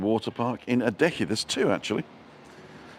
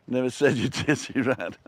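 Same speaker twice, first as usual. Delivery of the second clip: light mock gangster snarl, laughing; James Cagney line; 5 semitones higher than usual. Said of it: "glad somebody got the reference".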